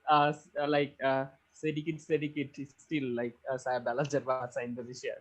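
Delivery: halting Indonesian with an English accent; hesitant learner's Indonesian, English accent; foreigner speaking indonesian. Real, not acted. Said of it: "so still not fluent".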